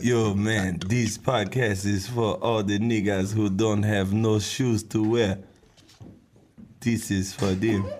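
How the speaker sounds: mock African accent; bad African accent. Podcaster dedicating the show to shoeless listeners, bad African accent. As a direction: do a poor, joking African accent. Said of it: "That is the worst African accent ever".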